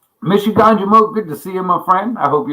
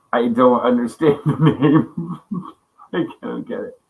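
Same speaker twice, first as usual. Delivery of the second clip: laughing; 3 semitones lower than usual. Real, not acted. Laughing while speaking.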